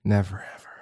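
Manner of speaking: soft tender murmur; sweet nothings. Acted. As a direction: whisper tender reassurances.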